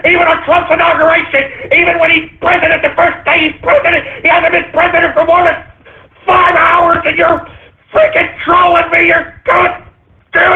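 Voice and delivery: hammed-up angry tirade; frustrated rant. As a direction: vent at the trolls, fed up. Comic rant against trolls.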